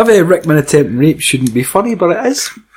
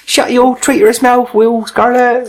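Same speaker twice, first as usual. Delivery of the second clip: raised, mock-menacing film villain; mock villain shout; 8 semitones higher, slower than usual. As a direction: bark it like a movie villain. Acted film line.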